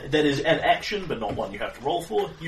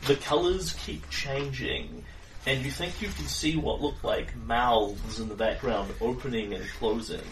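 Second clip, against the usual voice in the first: slow, dreamy scene setting; game master narration; slower than usual. A narrator's reading. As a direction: paint the psychedelic void slowly. GM describing the scene.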